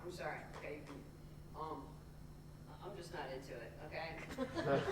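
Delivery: low, soft imitation of the boyfriend; halting, subdued mock apology; retold awkward apology. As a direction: drop low and quiet to back out. Boyfriend stops her, retold.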